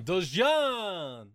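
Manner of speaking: drawn-out cartoon catchphrase; mock catchphrase. Friend shouting the character's catchphrase. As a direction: stretch it like a cartoon cry.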